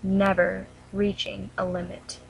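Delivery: measured poem reading with long pauses between lines; poem recitation. Real, not acted. Reading her own poem about an eating disorder to viewers, solemn recitation.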